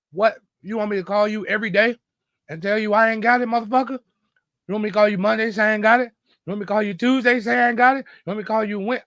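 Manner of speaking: imitating the friend's heated comeback; retold angry rant. Friend mocks the daily call requests, in a mock heated rant. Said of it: "a motherfucker let me have it".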